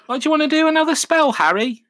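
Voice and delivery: high, fast whiny mock voice; hammed-up whining schoolboy; mock Ron. Ron asking Harry about a spell, high and whiny.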